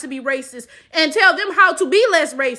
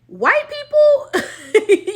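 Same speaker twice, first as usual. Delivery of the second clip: high, slow laughing drawl; 7 semitones higher, 3 dB louder, much slower than usual. Real, not acted. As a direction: stretch it out through a laugh. Drawn-out laughing exclamation.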